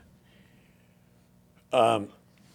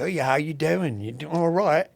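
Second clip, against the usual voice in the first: put-on Cockney accent; 4 semitones higher than usual. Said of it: "in this, like, Cockney accent".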